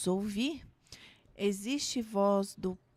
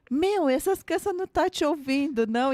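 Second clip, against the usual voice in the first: irritated pastor; 7 semitones higher, 3 dB louder than usual. Retold or imitated. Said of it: "até o pastor se irrita".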